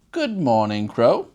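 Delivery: a lightly voiced crafty fox greeting; sly fox. Fox calling up to the crow, lightly voiced sly greeting.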